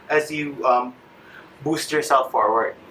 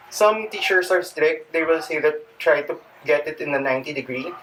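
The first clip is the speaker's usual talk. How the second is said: out of breath. Real, not acted. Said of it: "sorry, I'm panting".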